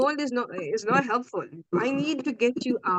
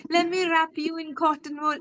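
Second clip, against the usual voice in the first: higher, slowed, cooing fuss over a fragile client; mock coddling; 5 semitones higher than usual. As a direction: pretend to baby someone, sweetly and over the top. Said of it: "I'm not gonna be like".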